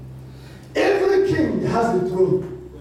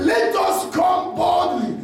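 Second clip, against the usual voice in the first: shouted preaching over music; fiery preacher sermon; 2 semitones higher than usual. Acted. Preaching at full force.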